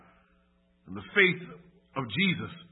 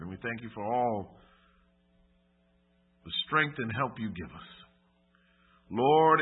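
measured, lower-pitched earnest prayer; closing prayer; 3 semitones lower than usual. Real, not acted. Preacher asking Father God for strength, solemn prayer. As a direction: pray aloud with solemn pauses.

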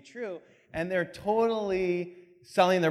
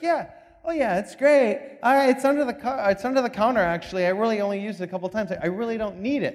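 cat lady; 4 semitones higher, 5 dB louder, faster than usual. Retold or imitated. Cat lady answering visitors.

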